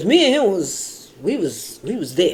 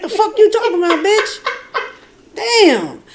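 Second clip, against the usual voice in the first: high, laughing self-scolding; laughing at herself; 12 semitones higher than usual. Retold or imitated. Woman scolding herself mid-laugh, high and giggly. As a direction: laugh while cussing yourself out. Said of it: "I'm saying to myself".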